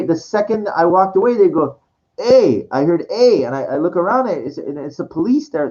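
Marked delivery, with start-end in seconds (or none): 2.2-2.7 louder, higher hail; sharp retold police hail; officer calling out. Police officer calls out to him. 3.1-3.4 louder, higher hail; sharp retold police hail; officer calling out. Police officer calls out to him.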